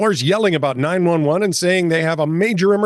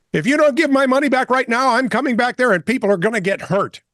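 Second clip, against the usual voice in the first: higher, menacing threat; threatening patient; 6 semitones higher than usual. Retold or imitated. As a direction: lean in and threaten.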